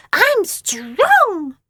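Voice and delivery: proud beastly growl. A narrator's reading. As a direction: Phoebe showing off her strength. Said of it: "growled Phoebe".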